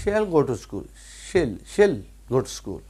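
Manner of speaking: "she'll" repeated as one falling syllable; contracted pronunciation. Shown as a demonstration. Teacher answering how it is pronounced, contracted pronunciation. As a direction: run she and will together as "she'll". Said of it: "بولتے کیسے ہیں".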